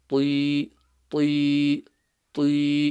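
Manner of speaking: Ti as a heavy ta with kasra; full-mouth ta. Shown as a demonstration. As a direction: say Ti slowly apart, each with a full mouth. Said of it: "it's full mouth".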